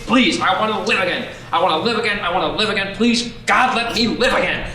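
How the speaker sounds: a touch of tearful prayer; desperate pleading. Acted. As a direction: beg to be sent back home.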